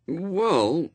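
high, hesitant rising opener; wary boy feeling his way; cautious. A narrator's reading. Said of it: "said Adam cautiously".

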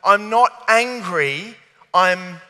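slow, drawn-out mock reproach; mock parental disappointment. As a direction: lightly act the let-down parent. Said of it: "You know that line that's like".

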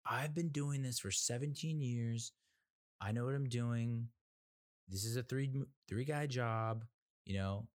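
pushy mover. Retold or imitated.

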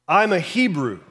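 I'm a Hebrew, said with a proud lift on I'm; proud declaration. Retold or imitated. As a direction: announce it like a badge of identity. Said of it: "I feel like he said it like that".

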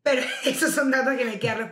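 repeats the line through a laugh. Real, not acted. Echoing her friend's joke while laughing. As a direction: laugh it out as you echo her.

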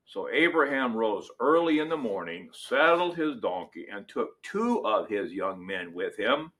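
measured, solemn reading of Scripture; dramatic Bible reading from the pulpit. Acted. Reads Genesis 22 aloud.

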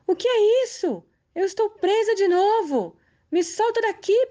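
high shriek of disbelief, then pleading; shocked desperate shriek. A narrator's reading. Death caught again on the stool, shrieking. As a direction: scream at being trapped again. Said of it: "A danada nem acreditou".

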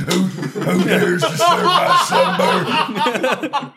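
high, slow summoned spirit; ancient rasping undead king. Pretend. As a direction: boom it out like a woken ancient king. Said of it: "I've been summoned".

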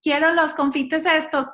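put-on high, slow, whining toddler voice; a small child begging for candy; whiny toddler. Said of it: "se me salía como".

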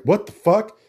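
mock shock at the hit; lightly voiced surprised duckling; startled duckling. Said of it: "the little duckling was like".

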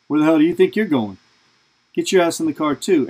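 mock furious dad telling him to get in the car; dad yelling at the friend, imitated; retold angry yell.

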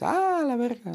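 high-pitched mock cry of shock; imitated startled cry. Friend imagines reacting to a bear, mock startled cry. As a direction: act out yelling at a bear. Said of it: "el oso grita, haces".

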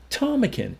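high, loud call; desperate cry. A narrator's reading. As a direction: cry his name across the room. Linda cries out, running forward.

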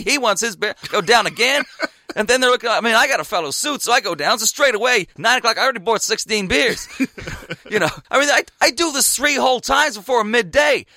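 high-pitched, worked-up American storyteller; loud American accent. Retold or imitated. American lad recounting endless beer runs at cricket, loud American accent. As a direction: play an American getting carried away with his tale. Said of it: "He's like your classic loud American".

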